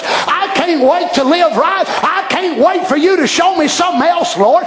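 rhythmic, driving Southern sermon delivery; forceful preaching. Real, not acted. Preacher urging the congregation to serve God willingly, forceful preaching. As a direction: preach it hard, phrase upon phrase.

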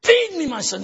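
slow, halting lines with long pauses; lightly voiced doubting father. Plays father testing his son.

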